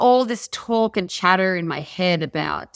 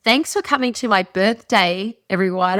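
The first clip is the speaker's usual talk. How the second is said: imagined announcement; 3 dB louder than usual. Pretend. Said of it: "I say".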